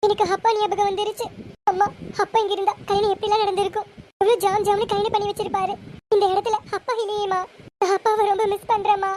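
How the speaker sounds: understated crying while missing someone dear; tearful. Acted. Daughter tells mother she misses her absent father, mildly tearful. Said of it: "ஏன் பிருந்தா அழுகுற".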